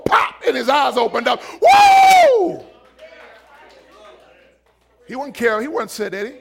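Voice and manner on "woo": very high, loud whoop of joy; joyful whoop. Acted. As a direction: let out a cry of delight. Healed man's joyful cry.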